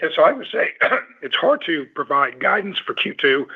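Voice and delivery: hoarse, worn-out voice; losing voice. Real, not acted. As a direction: voice giving out, pushing through. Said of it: "you can tell I'm losing my voice".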